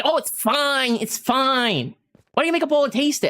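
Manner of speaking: imitating mom brushing it off; mom's voice. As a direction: coax him into tasting it. Mom insisting on the soup.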